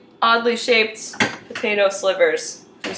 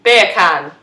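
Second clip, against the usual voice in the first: put-on British "Beer can", lower and deliberate; British accent; 5 semitones lower, 4 dB louder than usual. Shown as a demonstration. Showing friends the bacon joke, British accent. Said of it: "beer can in a British accent".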